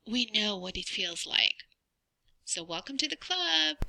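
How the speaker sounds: usual speaking voice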